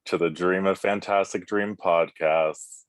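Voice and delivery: a bass ghost host welcoming mortals. Acted. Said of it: "That was phenomenal".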